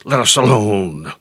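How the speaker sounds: lightly mock the devil's wail, stretching the last word; devil crying out. Devil protesting at teaching, lightly imitated cry. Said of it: "I have heard him cry out".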